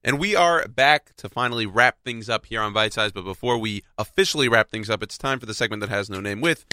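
nasal voice from a cold. Real, not acted. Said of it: "it's me with the nasally voice".

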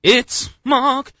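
a put-on American accent. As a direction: try out a showy American accent. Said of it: "How's my American accent?".

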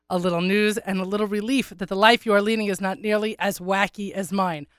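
raspy sick voice; congested, rough throat; hoarse voice. Real, not acted. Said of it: "if I sound to everyone else like I sound in my head".

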